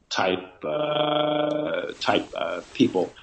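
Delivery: thin tinny sound like a bad phone line. Real, not acted. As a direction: voice coming through small and tinny. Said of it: "with the tinny voice".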